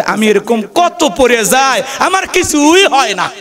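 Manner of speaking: put-on brushing off the pain like a brave kid; boy's reply. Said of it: "ওই ছেলেটা তখন বলতেছে".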